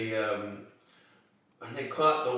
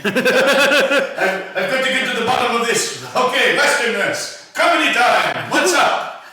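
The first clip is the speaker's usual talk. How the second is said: comedic character voice; 12 semitones higher, 15 dB louder than usual. Pretend. Mock extremist in hotel bar.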